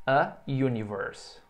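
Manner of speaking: "A universe" said slowly with "A" stressed; teacher modelling English; slow model phrase. Shown as a demonstration.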